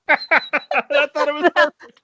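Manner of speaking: high, laughing through the words; can barely speak for laughing. Real, not acted. Laughing at guest's bad accent.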